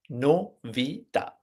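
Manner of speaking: slow, the word broken into separate syllables; "novità" slowly in pieces, rising. Shown as a demonstration. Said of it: "the Italian word".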